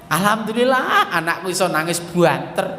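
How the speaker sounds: laughing while thanking God; a grateful parent chuckling; laughing gratitude. Retold or imitated.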